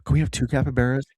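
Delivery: drawn-out stoner drawl; stoner capybara. Acted. Second capybara chimes in on the prophecy, stoner voice. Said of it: "can the capybara talk like a stoner?".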